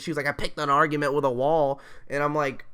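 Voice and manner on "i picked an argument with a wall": loud, exasperated teacher imitation; mock blow-up. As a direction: imitate a fed-up teacher's outburst. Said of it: "she blew the fuck up".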